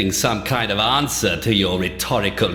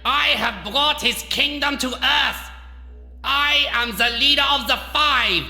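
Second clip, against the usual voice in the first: raised, higher-pitched megalomaniac declaiming; enraged villain rant; 5 semitones higher than usual. Acted. Doctor proclaiming his power to his mocker, enraged. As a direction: build to a commanding cry.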